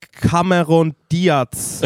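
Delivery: very slow, loud, word by word; slow reading aloud. Retold or imitated. Friend reading actor names aloud, loudly and slowly. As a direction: sound out the name like a learner. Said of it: "Das liest er immer laut vor".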